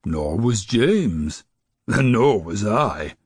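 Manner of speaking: slow, measured snowman voice, lightly voiced; a kindly snowman taking his time; gentle snowman. Snowman reassures grandma.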